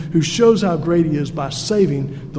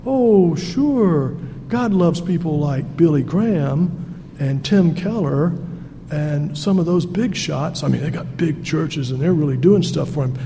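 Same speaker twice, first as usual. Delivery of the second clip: Satan's whisper. Retold or imitated. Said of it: "I hear the whisper of Satan saying".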